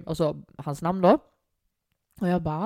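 ordinary talk, nothing marked

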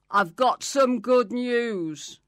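slow unvoiced secret whisper. Angel whispering good news to Mary. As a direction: lean in and breathe the good news slowly.

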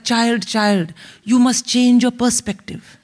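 grandiose, philosophizing Indian father; erudite father. Acted. Father consoling his crying daughter, erudite and lofty. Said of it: "so my father's very erudite".

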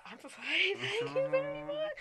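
mock high-pitched squeak, loud and drawn out; strained high reply. Acting her reply to the fake singer, strained high voice.

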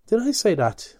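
a touch of Mulligan's surprised bluster; Buck Mulligan voiced. Mulligan, caught out, protesting to Stephen, lightly voiced.

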